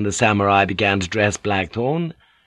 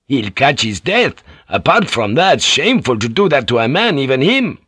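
a lightly voiced rough sailor, grumbling; coarse boatswain; 5 semitones higher, 4 dB louder than usual. Boatswain muttering over the sick pilot, lightly voiced rough sailor. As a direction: grumble it like a crude old seaman.

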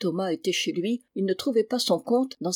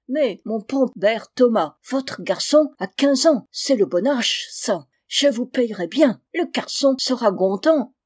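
thick German accent, French words softened and devoiced; 3 semitones higher, 6 dB louder than usual. German recruiter coaxing father Thomas, in a thick German accent. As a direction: play a German gentleman bargaining in heavy German-accented French.

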